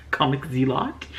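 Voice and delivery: "Zealot" as ZEE-lot, rising after a laugh; amused, unsure "Zealot" said ZEE-lot; trying a pronunciation. Shown as a demonstration. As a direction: question "Zealot" with a full LOT ending. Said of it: "I can't say that word right".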